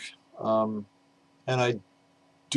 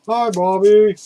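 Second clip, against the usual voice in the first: much higher and louder put-on greeting; record talking voice; 11 semitones higher, 9 dB louder, slower than usual. Album sleeve greeting Bobby in a high, loud put-on voice. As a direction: let the album itself say hi to Bobby. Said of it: "This one talks to you, Bobby".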